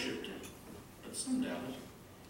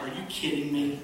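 louder, exasperated "Are you kidding me?"; exasperated sister; 2 semitones higher, 6 dB louder than usual. Retold or imitated. Sister scolding the forgetful pastor, loud disbelief. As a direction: let the disbelief burst out. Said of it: "she's like".

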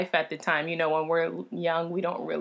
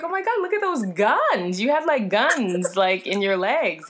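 stunned whisper; 3 semitones higher, 4 dB louder than usual. Retold or imitated. Retelling stunned reaction to muscles.

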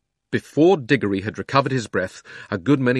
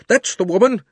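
shouted again, still high; crying out; 12 semitones higher, 7 dB louder than usual. A narrator's reading. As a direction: repeat the yell insistently. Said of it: "cried the fat man".

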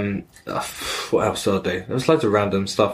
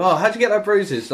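imitating the neighbour; 11 semitones higher than usual.

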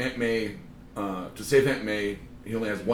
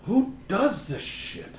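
yelling; 10 semitones higher, much slower than usual. Real, not acted. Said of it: "I like how you yell".

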